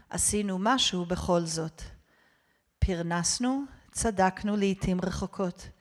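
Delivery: measured Hebrew litany, each phrase set apart; prayer reading. Real, not acted. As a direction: recite to a congregation, firmly and deliberately. Reads the Hebrew confession aloud.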